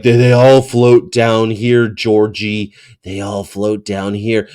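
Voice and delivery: slow, lightly voiced horror-clown impression; creepy clown quote. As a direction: draw it out like a taunting movie clown. Quoting the clown from It.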